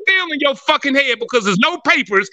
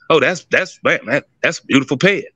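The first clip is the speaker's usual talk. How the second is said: mock fawning praise; 8 semitones lower than usual. Mocking a flatterer praising a pedigree, lower and fawning. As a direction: gush over the pedigree like a flatterer. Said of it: "the motherfucker tells you".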